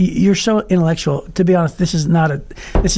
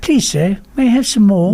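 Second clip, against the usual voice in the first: Victorian schoolboy. Pretend. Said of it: "The Oliver voice".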